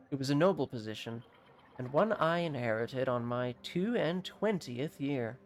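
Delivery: measured, slightly formal storyteller delivery; lightly voiced alchemist. Prime Alchemist telling a visitor his origins, lightly solemn. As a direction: recount a noble past with light gravity.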